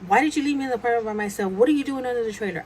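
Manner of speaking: retold indignant questioning; mildly heated demand for answers; mad. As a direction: fire off accusing questions. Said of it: "And I'm mad".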